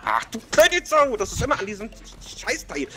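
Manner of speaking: high, loud laughing yell at the screen; laughing shout. Real, not acted. Frantic gaming, shouting at opponent. (lachend schreien)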